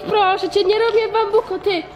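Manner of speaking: normal talking voice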